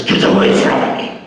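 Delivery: hissed under the breath; a whispered get away; quiet warning. Retold or imitated. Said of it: "very quietly says".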